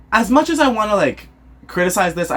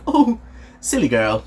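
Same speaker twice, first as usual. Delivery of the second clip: attempted British accent; 2 semitones lower than usual. Aunt watching Gigi run by, lightly attempted British accent. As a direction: try a light British tea-party voice. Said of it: "I can't do a British accent".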